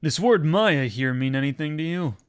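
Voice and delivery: loud, gravelly tough-guy cop; gravelly detective voice. Acted. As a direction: growl it like a gruff old detective. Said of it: "Doing those gravelly voices is killing me".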